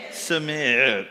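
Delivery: SUBMIT sinking away at the end; dropped in tone. Shown as a demonstration. Preacher reads the unwelcome word to wives, dropped in tone. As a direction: let the word "submit" drop off. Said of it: "it's like it dropped in tone".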